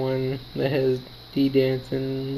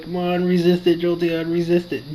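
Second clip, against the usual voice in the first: higher-pitched mock pleading cheer; retold urging; 4 semitones higher than usual. Player urging Jolteon to hold out, retold urging. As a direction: urge it on, reenacting the moment.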